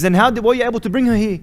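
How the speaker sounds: high, loud retold astonishment; incredulous question. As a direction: ask it as a baffled doctor. Acted doctor's puzzled question.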